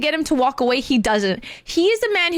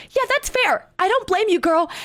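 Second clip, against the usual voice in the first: higher-pitched imitation of a dispatcher; sympathetic dispatcher; 6 semitones higher than usual. Voicing the dispatcher's sympathetic reply.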